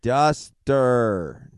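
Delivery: Duster said as duster with a u sound. Shown as a demonstration. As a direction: say Duster like crop duster. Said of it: "how in the world do you say your last name".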